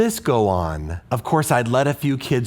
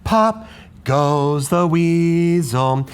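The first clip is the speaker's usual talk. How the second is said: held syllable; 3 semitones higher, slower than usual. Shown as a demonstration. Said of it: "Isn't our voice here still singing?".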